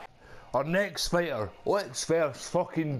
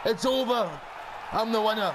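triumphant; 4 semitones higher than usual. Real, not acted. Gamer declares himself winner.

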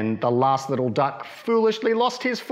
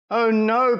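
Mother Duck; 7 semitones higher, 4 dB louder than usual. Acted. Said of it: "quacked Mother Duck".

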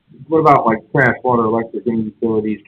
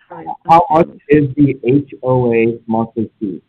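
slow and clear; slower than usual. Real, not acted. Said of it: "I'm having a real hard time understanding you".

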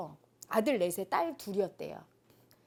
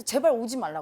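retold tantrum; 6 dB louder than usual. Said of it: "막 승질내면서".

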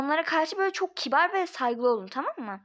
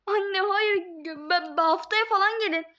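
panicked pleading; 6 semitones higher, slower than usual. Acted. Begging mother not to come.

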